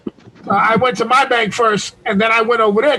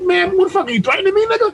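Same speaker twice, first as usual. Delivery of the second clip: retold angry outburst, higher and fast; mad yelling; 7 semitones higher, faster than usual. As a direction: challenge the threat in a heated retold yell. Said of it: "I start yelling at this nigga".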